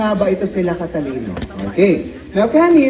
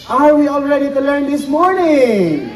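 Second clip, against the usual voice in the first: rallying call to crowd; 3 semitones higher than usual. Real, not acted. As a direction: rouse the crowd. Host rallies crowd at bird show.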